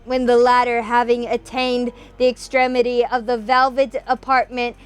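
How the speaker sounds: dramatic story reading. A narrator's reading. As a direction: read it like a dark tale by candlelight. Reads Poe's ending aloud.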